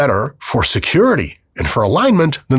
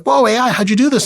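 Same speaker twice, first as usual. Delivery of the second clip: much higher, startled whoa; arrested user, startled, asking the AI; mock surprise; 11 semitones higher than usual. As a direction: act caught off guard.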